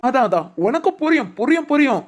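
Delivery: proud but near tears; choked up. Real, not acted. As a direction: voice catching with emotion. Father moved while talking to son. (மகனிடம் நெகிழ்ந்து தழுதழுத்த குரல்)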